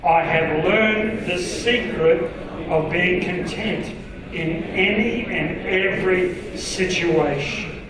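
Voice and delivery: slow, measured verse reading; deliberate pace, spacing out each phrase; group scripture reading. Acted. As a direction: lead a congregation reading aloud together. Leads congregation reading together.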